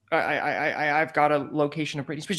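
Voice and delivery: stammering tipster on the phone; imitating a tongue-tied caller; flustered caller. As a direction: trip over the first word, then get it out. Nervous tip call, retold.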